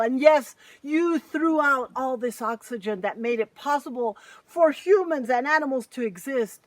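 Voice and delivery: put-on a furious giant scolding his children; furious mountain scolding. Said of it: "He was so furious. He just exploded out and said".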